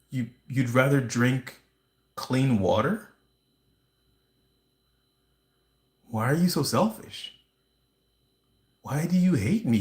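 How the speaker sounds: lightly voiced narcissist who blames you for everything; narcissist impression. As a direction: play a guilt-tripping narcissist, lightly hammed-up. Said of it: "that was my impression of a narcissist".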